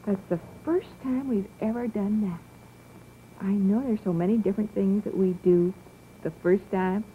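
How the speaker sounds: put-on gentle children's TV host voice; talking to small children. TV host coaxing the children at home, gently encouraging. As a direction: speak to a little child watching at home.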